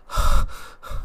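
imitated heavy exhale, breathy and unvoiced; heavy breathing sigh. Retelling his partner's heavy breathing in bed, imitated heavy sigh. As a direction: puff out one long mock heavy breath. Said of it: "like she's breathing very heavily".

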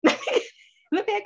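high, loud panicked squeal breaking into a laugh; playfully alarmed cry, laughing at herself; mock panic. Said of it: "I'm like".

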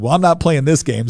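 laughing through the words. Real, not acted. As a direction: joke it off with a laugh. Joking with woman on plane.

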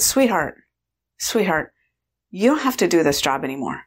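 gentle, soothing reassurance; sympathetic. Retold or imitated. Woman relieving her food manager of the job, tenderly. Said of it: "sympathy, empathy, really".

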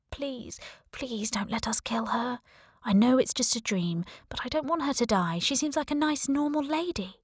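high, soft pleading voice; pleading dreamer. Acted. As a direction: beg softly for her life, rising in pitch. Pleading voice of a story figure.

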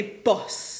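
a touch of Manchester on "boss"; Manchester accent. Shown as a demonstration. Showing friends her lost roots, Manchester accent. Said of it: "I feel a bit more Manchester".

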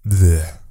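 weary groan. Real, not acted. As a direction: let out a sick, fed-up groan. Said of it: "that's how I feel today".

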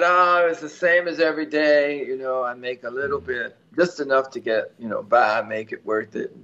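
lightly Southern-voiced old woman; a touch of Southern accent; imitated Southern accent. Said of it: "in a very Southern accent".

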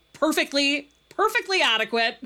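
laughing. Real, not acted. Dry joke about a sex scene.

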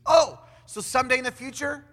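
loud, high questioning "oh, so"; mock realization. Preacher plays a listener guessing at God's timing, mock realization. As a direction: ask as if it just dawned on you.

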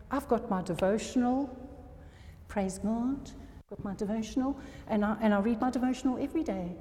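quick, sing-song parody of a box-ticking believer; mock smug churchgoer. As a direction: rattle off the checklist like a self-satisfied Christian. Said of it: "I don't know why I'm speaking like that".

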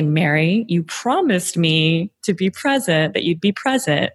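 mildly stern, deliberate pace; smiling but stern. Shown as a demonstration. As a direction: hold them to it, with a smile. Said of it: "say it with a smile, but sternly".

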